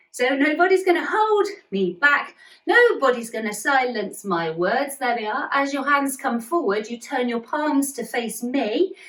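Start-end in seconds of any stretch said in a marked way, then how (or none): 0.3-5.0 raised, defiant no. Shown as a demonstration. Teacher to kids, defiant nobody's gonna hold me back. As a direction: wag a finger, refuse firmly. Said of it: "wagging both fingers".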